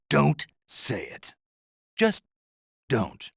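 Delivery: high, halting plea to stop; agitated plea. Acted. Begging the paramedic not to say it, agitated.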